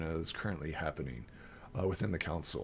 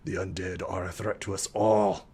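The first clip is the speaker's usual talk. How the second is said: lightly gruff council voice; a touch of gnarly growl for a grim warning; 2 semitones lower than usual. Acted. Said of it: "kind of gruff and gnarly".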